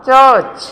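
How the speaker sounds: "ചർച്ച്" as chuhch; careful model "ചർച്ച്", falling; silent r. Shown as a demonstration. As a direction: drop the r in "ചർച്ച്". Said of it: "അവിടെ ആറ് silent ആണ്".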